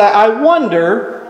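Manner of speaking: slow, curious wondering; voicing his own inner question, slowly; musing to himself. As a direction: puzzle over it aloud, drawn out. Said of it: "I say".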